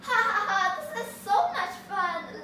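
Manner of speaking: loud, high mocking laugh into the words; gleeful laughing. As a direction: laugh at the fooled villagers. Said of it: "laughed the shepherd boy".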